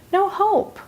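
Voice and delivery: a mock-gloomy little moan; hopeless. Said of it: "You kinda feel like".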